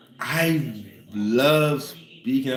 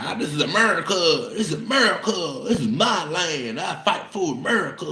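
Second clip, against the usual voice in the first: higher mock patriotic redneck voice; 7 semitones higher than usual. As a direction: parody a flag-waving southerner. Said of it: "you ran there like".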